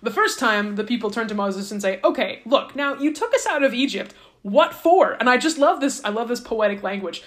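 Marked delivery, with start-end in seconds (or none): 2.0-5.1 complaining Israelites. Retold or imitated.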